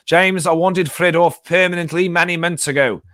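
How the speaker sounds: put-on South African accent. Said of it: "I'm enjoying doing a South African accent".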